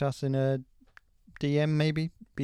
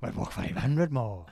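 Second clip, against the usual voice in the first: mock accent of a band; much slower than usual. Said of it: "They do not sound like that".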